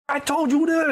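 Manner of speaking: high-pitched angry outburst; snapping girlfriend. Retold or imitated. Girlfriend pushed too far by teasing, snapping. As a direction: snap at him, fed up. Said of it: "And she snapped".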